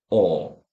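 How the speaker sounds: low, long rounded aw; long aw vowel. Shown as a demonstration. Teacher introducing the long vowel by sounding it. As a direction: round the lips and hold the aw. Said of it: "الصوت التاني اللي هو الطويل".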